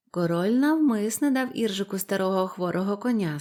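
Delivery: usual speaking voice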